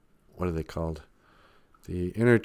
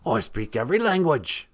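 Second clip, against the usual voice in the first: higher, far-off regal English lady voice; Queen of England voice; 4 semitones higher than usual. Acted. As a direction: speak as a grand queenly deity. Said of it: "you kinda sound like the Queen of England".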